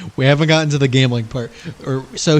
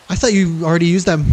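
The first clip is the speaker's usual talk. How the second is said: Stewie voice; 3 semitones higher, 4 dB louder than usual. Acted. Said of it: "Stewie, okay?".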